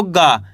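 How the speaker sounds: "गा" as voiced g with long aa; model pronunciation. Shown as a demonstration. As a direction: teach "गा" as a clear, unbreathed gaa. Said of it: "इस तरीके से बोलो".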